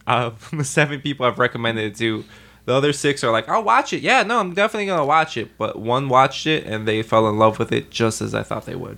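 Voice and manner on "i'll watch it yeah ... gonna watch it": higher, quick brush-off promise; high-pitched, hurried mock assurance; mock placating. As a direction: imitate friends insincerely agreeing. Imitates friends making empty promises.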